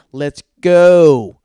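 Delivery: loud barked hurry-up; shouted let's go. Retold or imitated. Stand-up comic rushing tourists: loud barked let's go. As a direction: yell it to rush the slow tourists.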